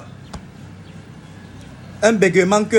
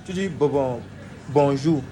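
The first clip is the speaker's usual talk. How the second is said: stutter demo; 6 semitones lower, 4 dB quieter than usual. Shown as a demonstration. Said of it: "tu veux dire bonjour".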